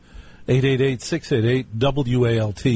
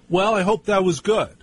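higher-pitched imitation of mother; casually fish for approval, pitched up; mother's noncommittal remark; 8 semitones higher than usual. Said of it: "That's how she'd say it".

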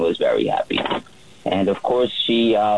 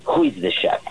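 light mock Russian accent, pitched higher. Slim lady boarding with her fluffy dog, imitated Russian accent. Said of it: "in a very Russian accent".

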